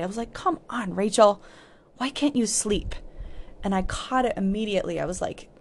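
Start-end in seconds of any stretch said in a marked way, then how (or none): 0.3-2.9 frustrated. Retold or imitated. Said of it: "so frustrated".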